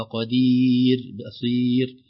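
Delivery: قدير and بصير with a light thin ر at the end. Shown as a demonstration. Teacher showing the correct light ر. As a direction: keep the ر of قدير thin, not heavy. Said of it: "ينبغي علينا أن نرققها".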